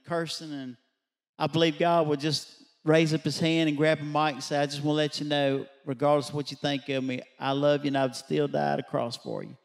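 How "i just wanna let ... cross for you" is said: raised preaching voice; emphatic declaration. Retold or imitated. God addressing a cursing assembly over a mic, emphatic declaration. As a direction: proclaim it firmly as if into a mic.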